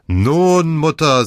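delighted surprise; joyful. A narrator's reading. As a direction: greet her with open delight. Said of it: "in seiner Stimme klang Freude durch".

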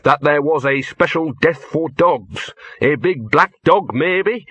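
hopeful plea with a rising finish. A narrator's reading. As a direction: build hope, lifting into a question at the end. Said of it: "he added hopefully".

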